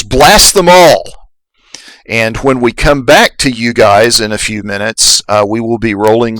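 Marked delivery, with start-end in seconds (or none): 0.0-1.0 high, slowed mock battle yell; raised-pitch attack order, stretched out; yelled command. A narrator's reading. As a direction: yell the order with moderate force, drawing it out. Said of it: "the Weequay then yells".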